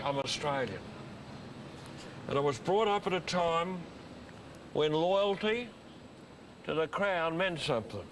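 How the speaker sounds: solemn address in measured phrases with long pauses; stirring speech. Acted. Visitor addresses the boys about loyalty to the Crown, stirring speech. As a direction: lift the key phrases like an orator.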